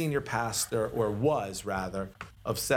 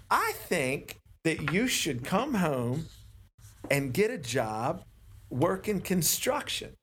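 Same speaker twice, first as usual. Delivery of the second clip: slow, even, weighty pastor voice; calm words that land like a sledgehammer; subtle stoic pastor; 4 semitones higher, slower than usual. Retold or imitated. Retelling the senior pastor's advice, slow and stoic. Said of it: "that voice, it's, like, subtle and stoic".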